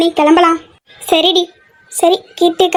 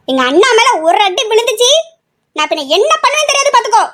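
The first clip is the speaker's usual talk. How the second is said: high, heated threat; angry threat; 5 semitones higher than usual. Acted. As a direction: warn them off in defence of a brother. Sister threatens in a quarrel.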